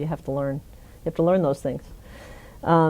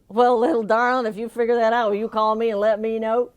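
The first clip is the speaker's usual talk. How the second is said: governor; 6 semitones higher than usual. Retold or imitated. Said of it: "he looks at me and he says".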